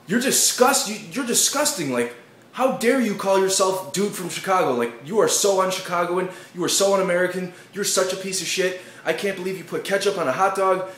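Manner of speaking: high, loud, scornful valley voice; mock disgusted crowd. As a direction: sneer in disgust at him. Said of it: "everybody's like".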